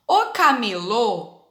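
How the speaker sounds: camelô with a long, closed final ô. Shown as a demonstration. Teacher showing pupils the closed O, camelô stretched on a closed ô. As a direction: draw out the closed ô ending of camelô. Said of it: "Olha o som do O fechado".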